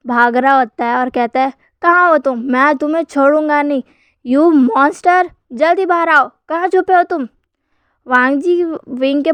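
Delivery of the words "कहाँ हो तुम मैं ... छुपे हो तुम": raised, heated calls while searching; angry father yelling for his hiding son; angry shouting. Acted. Wing furious, hunting the child.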